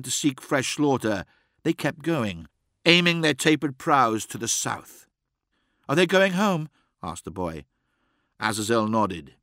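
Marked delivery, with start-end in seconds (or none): 5.9-6.7 put-on child voice. Boy asks about raiders.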